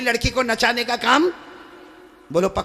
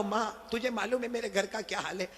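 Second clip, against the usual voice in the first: soft pleading; 3 semitones higher, 6 dB quieter than usual. Acted. Son pleading softly to mother.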